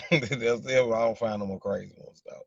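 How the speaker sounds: said through a real laugh. Real, not acted. Repeating his joke to the chat, laughing.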